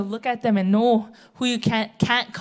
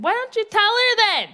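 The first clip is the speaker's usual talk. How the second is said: challenging call; 10 semitones higher than usual. Retold or imitated. Challenging the gossiping sisters.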